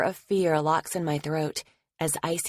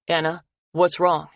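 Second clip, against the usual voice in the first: Logan's voice, louder and worried; alarmed boyfriend; 6 dB louder than usual. Acted. Logan hearing fear on the phone, worried and loud. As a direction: snap to alarm at her tone.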